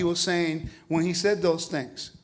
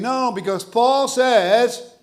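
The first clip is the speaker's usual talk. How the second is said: slow, raised, louder mock insistence; imitating a know-it-all critic, slow and emphatic; mock objection; 5 semitones higher, 6 dB louder, much slower than usual. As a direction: parody someone quoting Paul at you. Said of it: "and they are saying".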